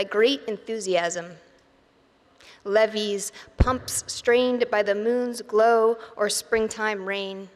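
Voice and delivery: measured recital, pausing between phrases; poem reading. Acted. Poet reads Resiliency Committee to audience, measured poem reading. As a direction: read it as verse, line by line.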